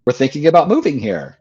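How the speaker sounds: high, eager fan voice that settles toward plain. Retold or imitated. Stranger recognizing Wayne Dyer on the beach, eager and high. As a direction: greet him like a thrilled stranger. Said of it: "Someone walks up to him and says".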